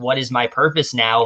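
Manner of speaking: ordinary talk, nothing marked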